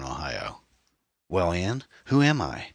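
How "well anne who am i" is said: taunting question, leaping high at the end; whiny nasal twang. A narrator's reading. Killer prompts Anne to name him, whiny and nasal. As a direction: whine it through the nose, goading her. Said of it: "a sort of whiny, nasal twang".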